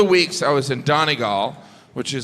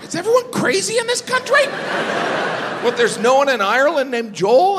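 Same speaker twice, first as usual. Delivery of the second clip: exasperated disbelief; 12 semitones higher than usual. Retold or imitated. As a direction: throw hands up in disbelief. Exasperated comic.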